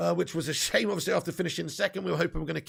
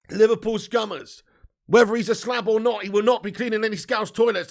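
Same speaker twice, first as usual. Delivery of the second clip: indignant; 3 semitones higher, 7 dB louder than usual. Real, not acted. Indignant loud rant.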